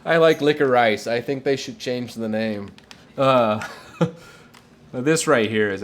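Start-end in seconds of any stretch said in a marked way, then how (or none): 0.4-1.1 Licorice said louder, ending like "rice"; licorice as "lick-o-rice". Shown as a demonstration. Streamer picking the favourite reading, Licorice as "lick-o-rice". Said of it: "I don't know how to pronounce that".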